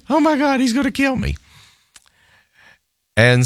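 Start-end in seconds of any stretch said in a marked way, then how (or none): 0.1-1.4 high, half-joking alarm; mock panic. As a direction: fret in a light mock panic. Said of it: "I thought".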